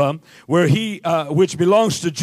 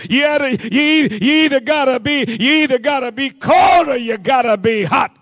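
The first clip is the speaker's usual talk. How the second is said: raised, driving sermon delivery; fired-up preaching; 4 semitones higher than usual. Real, not acted. Preacher challenging the congregation to choose, fired-up preaching.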